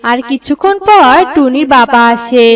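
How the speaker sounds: usual speaking voice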